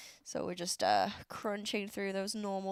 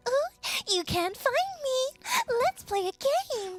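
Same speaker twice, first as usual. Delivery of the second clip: high, louder teasing lady; playful NPC voice; 4 dB louder than usual. Retold or imitated. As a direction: hide and tease the player. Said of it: "especially when she's like".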